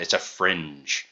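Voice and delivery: FRINGE leaned on and drawn out, mimicking her; imitated emphasis. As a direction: quote her with a stretched stress on "fringe". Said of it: "She has to emphasize".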